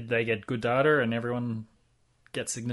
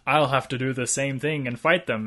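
Adam West; 2 semitones higher, 4 dB louder than usual. Retold or imitated. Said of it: "Adam West is like".

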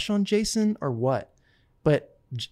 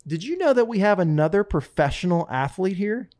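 announcing line; 4 semitones higher, 4 dB louder than usual. Retold or imitated. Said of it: "I want you to say".

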